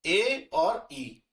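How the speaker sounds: ए और ई stretched out very slowly; drawn out so students remember; slow demo. Shown as a demonstration. Teacher stresses the vowel change slowly for students. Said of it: "ये ध्यान रखना".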